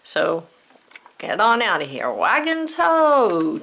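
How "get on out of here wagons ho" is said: loud, drawn-out trail call. Pretend. Teacher shoos covered wagon out of the spelling lesson, calling out. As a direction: holler to send wagons off, last word high and stretched.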